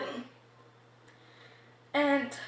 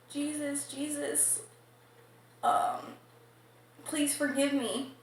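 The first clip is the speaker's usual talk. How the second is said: mock crying plea; 4 dB quieter than usual. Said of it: "crying 'cause he's like".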